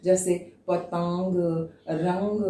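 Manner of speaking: पतंग and रंग said slowly, the final ं sounded through the nose; slow nasal teaching demo. Shown as a demonstration. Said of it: "हम वो नाक से करते हैं".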